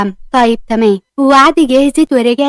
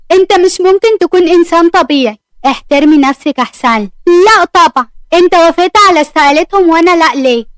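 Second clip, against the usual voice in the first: angry protest; 4 semitones higher than usual. Acted. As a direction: demand to know why, voice raised. Argument with new director.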